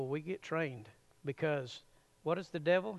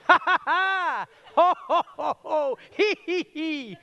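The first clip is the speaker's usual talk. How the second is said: much higher and louder ha ha ha, slowing on hee hee hee; big belly laugh; 12 semitones higher, 10 dB louder than usual. Shown as a demonstration. Preacher leads the crowd in a full laugh. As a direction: let the laugh roll out. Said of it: "do it again".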